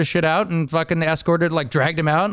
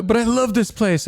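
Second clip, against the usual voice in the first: clumsy mock Colombian accent, higher; bad Colombian accent; 5 semitones higher than usual. Colombian coworker professing love for workplace, horrible mock accent. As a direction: imitate a Colombian coworker, accent badly faked. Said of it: "I'm doing a horrible accent".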